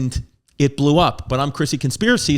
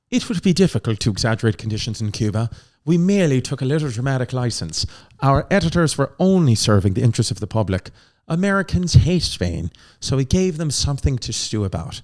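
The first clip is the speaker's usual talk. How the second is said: mock Irish accent. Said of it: "William Randolph Hearst has a quote".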